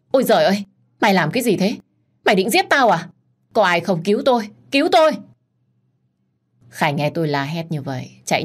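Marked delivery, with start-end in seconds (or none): 0.1-3.1 high, loud alarmed shout; loud cry. Acted. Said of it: "Tôi hét lớn". 3.5-4.5 high, louder cry for help; calling for help. Acted. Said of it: "Tôi hét lớn". 4.7-5.1 very high, loud shriek; shrieking for help. Acted. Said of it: "Tôi hét lớn".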